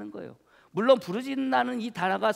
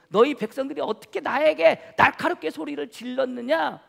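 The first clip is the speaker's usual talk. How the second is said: forceful, louder mock rebuke; reproachful God; 3 semitones higher, 5 dB louder than usual. God confronts Moses about his people, forceful reproach. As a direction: imitate God demanding an answer, voice pushed up. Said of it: "나에게 불평하느냐".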